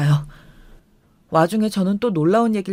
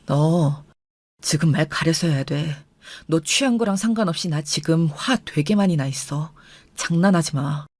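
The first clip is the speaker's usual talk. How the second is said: low warning; 5 semitones lower than usual. Retold or imitated. Husband's low warning in quarrel.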